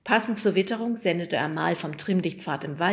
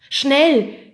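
loud, raised shout; urgent call; 8 semitones higher, 13 dB louder than usual. Acted. Nemo calls to the others, urgent shout. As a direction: call out fast help is needed. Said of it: "rief Nemo den anderen zu".

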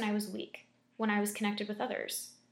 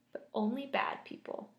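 hushed monster whisper. Acted.

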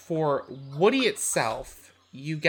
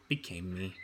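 creature voice; 7 semitones lower, 11 dB quieter than usual. Acted. NPC creature speaking to party.

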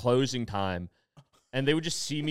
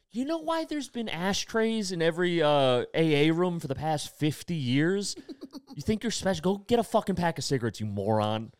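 mock scolding; 5 semitones higher than usual. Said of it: "he's like".

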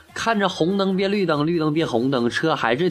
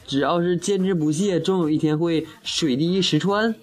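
mildly excited, pitch climbing toward the end; acted eager realization, lifting higher as it goes; excited disciple; 3 semitones higher than usual. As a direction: build hope into a rising question. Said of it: "然后这个人就激动地说道".

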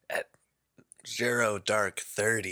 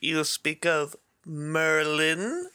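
wizard voice; 7 semitones higher, slower than usual. Acted. Voicing the old wizard.

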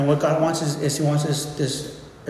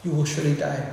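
softer, gentle warning; God warning Adam like a loving father; 5 dB quieter than usual. Retold or imitated. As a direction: caution him tenderly like a father. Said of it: "in the tone of just a loving father".

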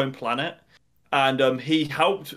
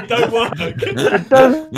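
Jar Jar voice; 9 semitones higher, 9 dB louder, slower than usual. Pretend. Failing at the voice.

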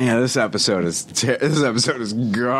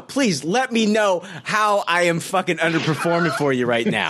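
sarcastic; 5 semitones higher than usual. Real, not acted. Sarcastic rant at yawning cohost.

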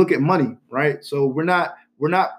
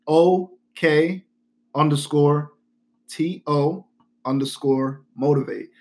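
spelled out letter by letter; over enunciating; much slower than usual. Shown as a demonstration. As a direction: spell each letter out clearly. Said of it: "spell 'em out and enunciate".

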